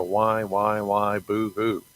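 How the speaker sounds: slowed, sing-song mock whine of boo-hoo; mock whining. Mocking how he whines to God, slow and childish. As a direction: parody his own crybaby complaint. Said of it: "He knows I'm gonna whine and cry".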